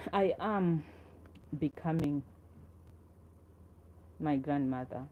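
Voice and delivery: measured poetry recital with long pauses between phrases; poem reading. Acted. Poet reads to viewers about grandmother carrying her, measured recital. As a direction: read it line by line, letting each phrase settle.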